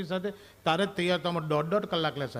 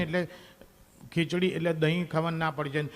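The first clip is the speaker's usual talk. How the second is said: normal talking voice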